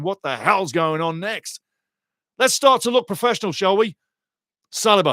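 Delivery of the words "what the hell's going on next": usual speaking voice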